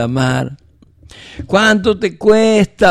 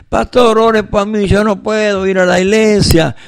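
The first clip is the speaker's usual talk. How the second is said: imitating a congregant; 5 semitones higher than usual. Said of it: "o llaman y dicen".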